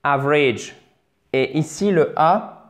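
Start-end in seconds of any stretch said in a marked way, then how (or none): 0.0-0.8 "Average." with short A first, short I in the last syllable. Shown as a demonstration. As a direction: stress the short A of "Average.", then a brief I. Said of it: "prononcé comme un I bref". (« Average. » avec A court puis I bref)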